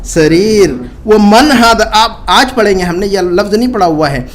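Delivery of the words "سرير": slow, drawn-out drill; slow teacher repetition; slow model reading. Shown as a demonstration. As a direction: say it slowly for students to copy. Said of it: "ما هذا؟".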